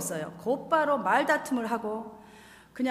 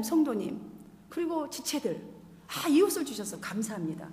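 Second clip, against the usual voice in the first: prayer; 2 semitones higher than usual. Shown as a demonstration. Models a prayer of confession.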